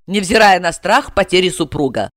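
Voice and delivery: ordinary delivery, nothing marked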